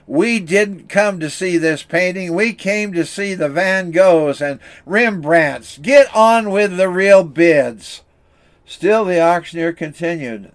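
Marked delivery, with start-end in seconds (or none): 0.1-8.0 angry shout. Acted. Bidder heckling the auctioneer to move on, mildly angry. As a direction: heckle the auctioneer impatiently, not at full force. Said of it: "Another voice shouted angrily".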